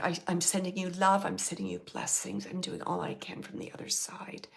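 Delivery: soft, breath fading towards a whisper; tender message. Retold or imitated. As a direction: pass on the blessing quietly and lovingly. Relaying a loving message from the dead.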